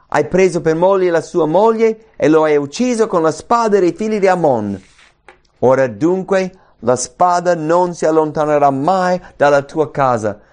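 forceful prophetic declamation; stern, emphatic scripture reading; scripture reading, Nathan's rebuke. Acted. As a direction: read out the rebuke with rising force. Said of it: "E Nathan parla".

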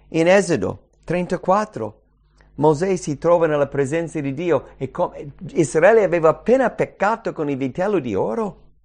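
ordinary talk

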